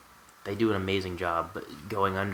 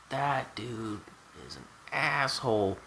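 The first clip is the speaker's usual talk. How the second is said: higher, broken up for emphasis; emphatic retold verdict; 3 semitones higher, slower than usual. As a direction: land it deliberately, pausing mid-sentence.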